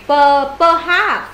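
"Per, perhaps" split slowly; slow syllable model. Shown as a demonstration. Teacher slowly splits the word for students. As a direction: break "perhaps" into parts.

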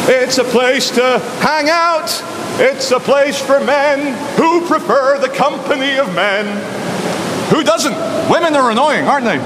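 drawn-out high falsetto, mock-earnest; high-pitched character. Explaining a place for men, high put-on falsetto.

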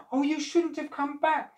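high, mild wail; enormous lady wailing at Jack. Acted. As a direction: lament that he came back. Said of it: "she wailed".

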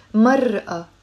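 mar'a with a drawn-out r and a break before the final a; stretched r in "mar'a", then a separate a; written-form pronunciation. Shown as a demonstration. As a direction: say "mar'a" slowly, as it is written with alif. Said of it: "we don't pronounce mar'a".

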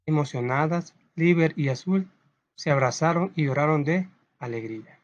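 measured storytelling with long pauses; story narration. A narrator's reading. Teacher reads a tale of fireflies to pupils, story narration. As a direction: read it as a children's story, phrase by phrase.

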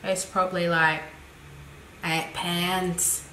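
put-on low-key botched British accent; bad British accent. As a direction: lightly attempt a British accent, badly. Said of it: "That was a really bad accent".

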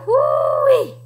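high, loud "hoo-wee"; playful stinky-smell exclamation; mock disgust. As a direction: whoop as if it stinks. Reacts to smelly mouth.

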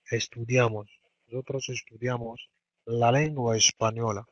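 slow model sentence. Shown as a demonstration. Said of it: "teacher models sentence slowly".

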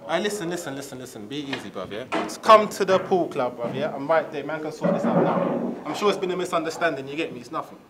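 smoothing it over on the phone; reassuring. Acted. Soothing caller quietly.

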